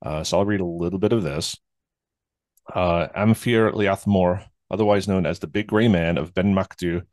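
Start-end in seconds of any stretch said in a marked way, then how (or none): 3.2-4.4 Am Fir Liath Mor spelled out slowly in careful Gaelic; a modest stab at Gaelic Am Fir Liath Mor; Gaelic attempt. Shown as a demonstration. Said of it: "my Scottish is, is pretty bad".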